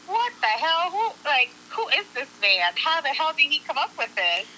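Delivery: mildly stunned, replaying your own reaction; amazed disbelief. Retelling her stunned reaction to link.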